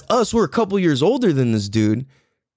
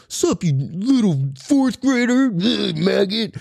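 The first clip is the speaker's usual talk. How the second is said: slow, higher put-on bully voice; sixth-grade bully; 5 semitones higher, slower than usual. Sixth grader taunting a fourth grader, slow mock sneer. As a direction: drag out the taunt, mocking. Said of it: "if a sixth grader comes up to me".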